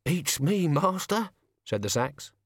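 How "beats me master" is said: put-on gruff old servant. The sacks speak.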